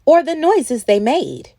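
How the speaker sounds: lively storybook read-aloud; reading to children. A narrator's reading. Storyteller reading a rhyming picture book to children. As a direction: read it like bedtime story time for kids.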